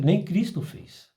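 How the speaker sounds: lightly voiced spirit guide, slowed down; a hint of an old caboclo spirit warning, unhurried. Guide spirit warning the medium, a lightly voiced slow caution. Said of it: "ele fala".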